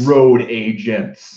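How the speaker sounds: stretched-out, hammed-up title call; throat-straining podcast title voice. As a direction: echo the title very slowly in a put-on voice. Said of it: "do the whole thing in this voice".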